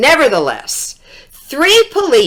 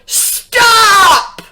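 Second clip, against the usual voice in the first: high, commanding stop; police shouting at the fart; police yell; 11 semitones higher than usual. Acted. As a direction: bark the order.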